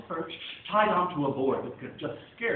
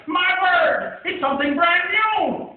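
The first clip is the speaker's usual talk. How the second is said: high, loud, stretched-out cry breaking into a laugh; excited shout; 14 semitones higher, 11 dB louder, much slower than usual. Acted. Crowd cheers the elephant bird, laughing loud shout. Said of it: "they shouted".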